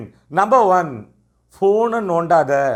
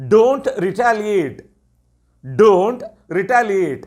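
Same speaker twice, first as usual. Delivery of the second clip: slow teacher model phrase; much slower than usual. Shown as a demonstration. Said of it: "எப்படி சொல்லலாம்?".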